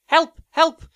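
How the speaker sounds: high, loud pretend cry for help; mock shouting for help. Podcaster pretending to be buried alive, mock shout for help. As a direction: shout as if trapped underground, playing it up. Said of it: "I'd be out there shouting".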